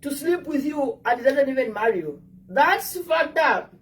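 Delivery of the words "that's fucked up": indignant. Real, not acted. Indignant remark on cheating men.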